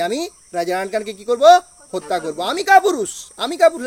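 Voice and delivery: a wounded warrior flaring up, hammed for the class; roaring back. Teacher voicing Macbeth raging at being called a coward, mock fury. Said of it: "গজরে উঠলো কে?".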